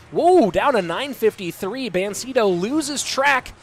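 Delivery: brisk, lively esports commentary; live play-by-play. Real, not acted. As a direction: call the match live, lifting on the big moments.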